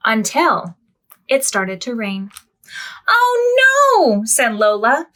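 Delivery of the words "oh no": high startled oh no; storybook dismay. A narrator's reading. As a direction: gasp out oh no in dismay. Rain ruins the park.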